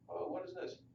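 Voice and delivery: a sudden high startled "oh"; startled surprise. Acted. Native Americans hit by gunfire, startled high surprise. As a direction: jump up in pitch, caught off guard.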